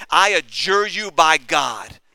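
slow, weighty adjuration. Retold or imitated. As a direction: put the man under oath with measured force. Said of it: "He put Jesus under oath".

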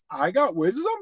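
half to himself, a low protest; quiet protest. Retold or imitated. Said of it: "I'm like".

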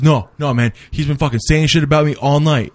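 retold angry retort. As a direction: imitate a friend protesting in an argument. Friend's angry retort in retold quarrel.

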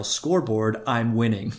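mock yell. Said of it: "wear a different jersey and yell".

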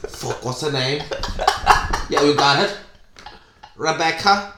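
lightly voiced clueless groom, halting; Kyle. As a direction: fumble for the bride's name in mock confusion. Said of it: "at the altar about to do my vows".

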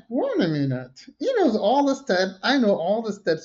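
re-enacted amazed realization, pitch jumping up; mock surprise. Two dancers discovering both know the steps, mock surprise. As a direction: act out a sudden happy discovery.

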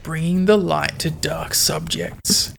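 slow, measured podcast tagline; tagline delivery. Pretend. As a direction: draw it out like a show slogan. Tries out the catchphrase as intro.

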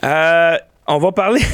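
words cut off by a coughing laugh; about to choke laughing; choking on laughter. Real, not acted. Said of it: "Je m'étouffe quand je rigole". (s'étouffe en riant)

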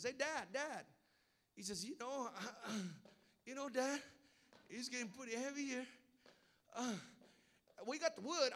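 put-on young son. Son Isaac voiced asking father.

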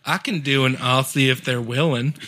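shaky-quality try at Australian; attempted Aussie accent. Friend offering to do an Aussie, attempted Australian accent. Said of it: "I don't think that was quite".

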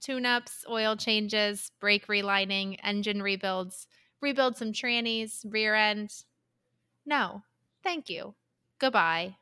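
lightly voiced New Jersey mechanic; New Jersey accent. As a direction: rattle off car talk in New Jersey accent. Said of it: "Do you wanna hear my, um, New Jersey accent?".

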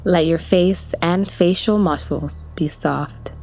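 whispered relaxation cue. Acted. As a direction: breathe it out as a whisper. Face relaxation cue in meditation.

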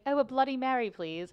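lightly put-on British accent; tipsy attempt at a British accent. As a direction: order politely with a touch of British. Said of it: "ordered something in a British accent".

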